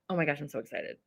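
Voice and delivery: hushed repeat. Real, not acted. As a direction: say it quietly, bottling up the thrill. Repeats very softly.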